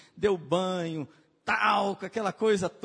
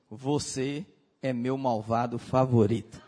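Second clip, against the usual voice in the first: lower, laughing through the words; fond quote with a laugh; 6 semitones lower than usual. Retold or imitated. He looks at him and says it, laughing. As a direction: tease it out with a chuckle. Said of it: "ele olha e diz assim".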